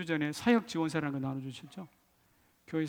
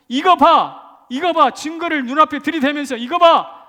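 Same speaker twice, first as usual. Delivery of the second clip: high, loud shout of proof; bold, full-voiced vindication; triumphant shout; 10 semitones higher, 13 dB louder than usual. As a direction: shove the proof at the doubters, shouting. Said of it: "저는 정정당당히 외치고 싶습니다".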